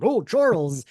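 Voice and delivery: lightly imitated stage-actor Magneto; Ian McKellen impression. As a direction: retell an actor's line with a half-rolled R. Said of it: "he did a really good impression".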